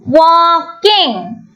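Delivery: "Walking" drawn out as wal-king; split into syllables. Shown as a demonstration. Teacher showing where walking splits, "Walking" split syllable by syllable. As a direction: say "Walking" in two separated, lengthened syllables. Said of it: "We are splitting it into two".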